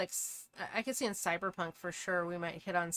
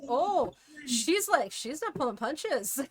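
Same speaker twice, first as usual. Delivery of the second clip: impressed surprise; 7 semitones higher, 5 dB louder than usual. Retold or imitated. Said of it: "I was like".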